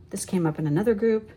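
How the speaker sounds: whispered aside. Real, not acted. Reader to viewers about the group, whispered aside. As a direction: breathe it as a secret. Aside while reading cards.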